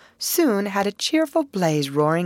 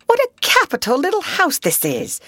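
high, bright call; cheery call; 11 semitones higher, 3 dB louder than usual. Acted. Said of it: "he called out cheerily".

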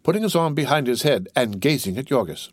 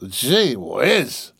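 whispered in wonder; awed whisper. A narrator's reading. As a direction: breathe it out amazed. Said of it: "watching him in wonder".

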